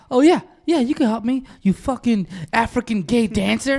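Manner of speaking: imitating angry caller. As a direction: play the caller firing back insults. Retold angry caller's confrontation.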